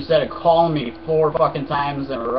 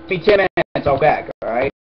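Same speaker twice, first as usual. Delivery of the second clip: loud on the phone; 5 dB louder than usual. Real, not acted. Telling the caller to wait, loud. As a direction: push the caller off loudly.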